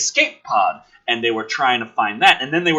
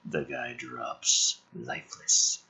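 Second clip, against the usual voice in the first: deadpan drop; 13 semitones lower, 11 dB quieter, much slower than usual. Acted. Deadpan low narration.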